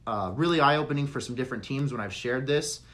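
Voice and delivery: raspy, losing voice; strained, hoarse throat. Real, not acted. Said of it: "I'm losing my voice here".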